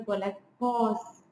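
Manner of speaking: slow "were like", landing on a long "paws"; stress on PAWS. Shown as a demonstration. Lecturer showing where the stress is, stress on PAWS. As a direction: draw out "paws" with a fall. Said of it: "So the stress is here".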